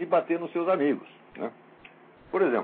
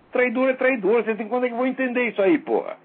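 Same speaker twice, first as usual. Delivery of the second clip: higher, louder, fast at the end; angry rant; 7 semitones higher, 3 dB louder than usual. Real, not acted. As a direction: hammer the point furiously. Heated rant. (desabafo furioso)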